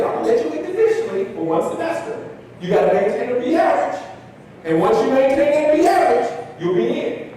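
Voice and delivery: high-pitched mock professor recognizing a football player; Doctor Scott's voice. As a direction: sound delighted and a bit prim. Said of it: "That's how he talked".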